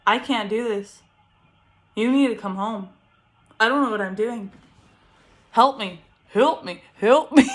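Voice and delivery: retold cry for help; retold desperate plea. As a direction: beg for help, mock-desperate by the end. Panicked call to her husband.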